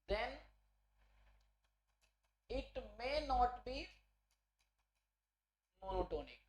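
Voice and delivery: word by word, long gaps between phrases; slow dictation. Real, not acted. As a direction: dictate slowly, as if writing along. Dictates the remark while writing it. (धीरे-धीरे, रुक-रुक कर लिखवाते हुए)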